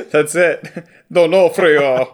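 D'Onofrio spoken syllable by syllable like a robot. Shown as a demonstration. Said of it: "in the robot voice".

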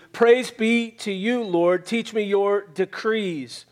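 measured reading, slowing on key phrases; scripture reading. Acted. Preacher reads the psalm to the congregation, measured scripture reading.

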